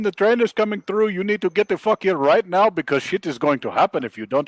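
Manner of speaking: high-pitched mock grandma voice; acted grandmother. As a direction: play an insistent grandma summoning her granddaughter, pitched well up. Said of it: "and the grandma says".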